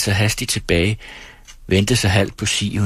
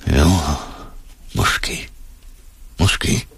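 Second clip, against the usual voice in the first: slow, halting whisper; laboured whisper; much slower than usual. A narrator's reading. Old ferryman reluctantly concedes, whispering slowly and laboriously. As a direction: bring it out slowly, with effort. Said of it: "Langsomt og besværligt hviskede han".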